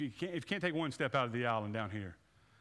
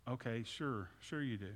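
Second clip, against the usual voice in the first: cynical; 4 dB quieter than usual. Retold or imitated. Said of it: "We respond with, cynicism".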